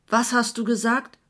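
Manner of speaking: put-on old friend yelling back, half deaf from the noise; shouting back. A narrator's reading. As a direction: yell the question back over the music. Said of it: "schrie Manni gegen den Zaun zurück".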